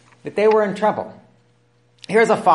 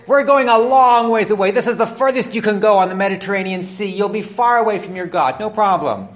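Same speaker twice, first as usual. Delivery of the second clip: breezy sailors; 4 semitones higher, 3 dB louder than usual. Acted. Sailors make light of it.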